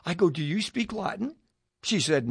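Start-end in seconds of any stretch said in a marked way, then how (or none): 0.3-1.4 softly voiced whisper-like question; retold whisper. Asking his hosts during mass, in a soft retold whisper. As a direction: hush it as if in church. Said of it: "I'm whispering again".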